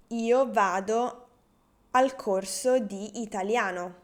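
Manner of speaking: slow, carefully articulated first take; slow model sentence. Shown as a demonstration. Teacher first says the example slowly for beginners. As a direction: lay the words out slowly for the learners. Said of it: "would be".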